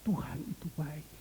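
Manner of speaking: soft, voiceless reassurance; preacher whispering comfort to a weeping woman; whispered comfort. Retold or imitated.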